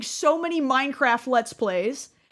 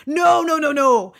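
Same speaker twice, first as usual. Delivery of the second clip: louder, punchy No no no, then hit THERE hard; emphatic excited insistence; 4 semitones higher, 5 dB louder than usual. Real, not acted. Telling viewers why his series needed lore, emphatic and louder. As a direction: insist it like the whole point was lore.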